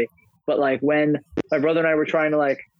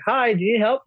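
nurse voice; 7 semitones higher than usual. Retold or imitated. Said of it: "The nurse is like".

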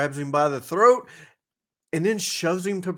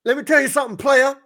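Teddy Long voice; 10 semitones higher, 6 dB louder, faster than usual. Retold or imitated.

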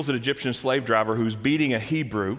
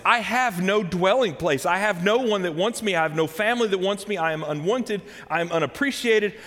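pleading Moses; 4 semitones higher than usual. Retold or imitated. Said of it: "So Moses is saying".

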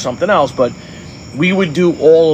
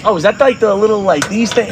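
higher-pitched, unsure questioning; acted-out puzzlement, pitched up; confused customer; 6 semitones higher than usual. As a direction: grope for the word like a clueless client. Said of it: "this is not registering with me".

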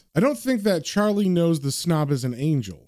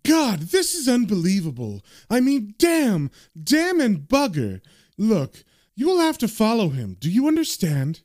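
angry yell; 4 semitones higher than usual. Acted. Boss on the phone yelling at the waiter, angry. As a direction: bellow the orders down the phone. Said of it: "And the man on the phone yells".

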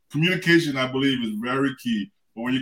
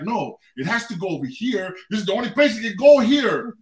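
mock-angry insistence, building louder; retold mad; 5 semitones higher, 3 dB louder than usual. Husband insisting to his wife it goes here, getting mad. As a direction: start firm, build to a higher, louder protest. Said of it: "I was just getting mad".

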